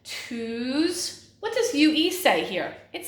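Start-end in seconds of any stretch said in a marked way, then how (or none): 0.0-1.3 "Tues-" alone, vowel stretched out; phonics-style "Tues-", held for inspection; isolated first syllable. Shown as a demonstration. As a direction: draw out "Tues-" and stop before the second syllable. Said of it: "But the beginning part".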